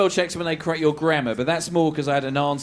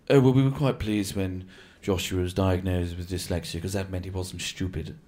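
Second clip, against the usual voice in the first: smug middle class parent; 8 semitones lower than usual. Retold or imitated. Middle class parent on son's dyslexia, hushed and smug. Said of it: "They'll say something like".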